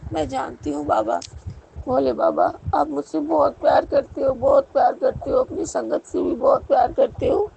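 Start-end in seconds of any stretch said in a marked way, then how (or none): 1.9-7.5 fervent plea. Real, not acted. Pleading prayer to Bhole Baba.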